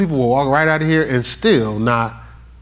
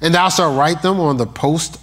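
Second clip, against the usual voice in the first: scripture reading. Acted. Reads scripture aloud.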